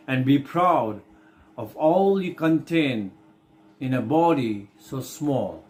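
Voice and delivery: slow, deliberate verse with pauses between phrases; poem reading. Acted. Teacher reading the Earthworm's monologue for the class, slow recitation. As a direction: read the poem out slowly, stretching the key words.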